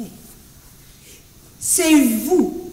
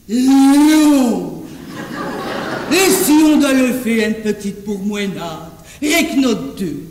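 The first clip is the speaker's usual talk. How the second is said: sultry voice; 3 semitones lower than usual. Shown as a demonstration. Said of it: "une voix langoureuse".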